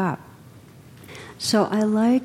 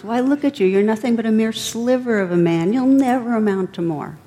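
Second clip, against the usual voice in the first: higher, a touch louder, sneering smirk; mock the young samurai from on high; smirking taunt; 4 semitones higher, 3 dB louder than usual. Old monk smirking at the arrogant samurai, raised mocking taunt. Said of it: "He smirks".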